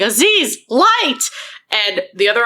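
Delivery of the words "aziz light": high-pitched, exasperated mock yell; acting out an archaeologist yelling for help; imitated yelling. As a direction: call out sharply, pitch leaping on the last word. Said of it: "just keeps yelling".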